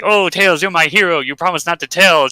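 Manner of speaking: a hint of a grateful damsel; mock gushing heroine. Sally thanking Tails after the act, mock gushing. Voicing Sally praising her hero.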